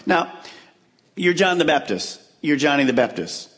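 ordinary delivery

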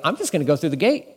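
cocky, daring tone rising to a high "Let 'em try"; mock-brave dare; bravado. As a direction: toss it off like nothing can touch you. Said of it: "this bravado kind of attitude".

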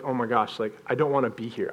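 low, hushed regret; retold quiet dread. Skydiver at the edge of the plane, in quiet dread. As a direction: say it small, soft and low, as if to yourself.

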